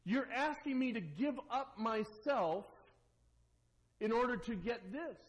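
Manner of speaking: a disbelieving listener protesting; skeptical objector. Retold or imitated. Objector voiced in sermon.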